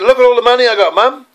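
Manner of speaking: high, bright boasting voice; a boy showing his mum his money, excited; excited child. Retold or imitated. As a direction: show off the winnings like a thrilled kid. Child shows mother winnings.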